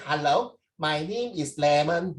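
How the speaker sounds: slow, drawn-out mock introduction; deliberately unprofessional slow phone hello; mock phone greeting. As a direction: introduce yourself slowly, as a joke caller. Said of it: "I don't talk like that".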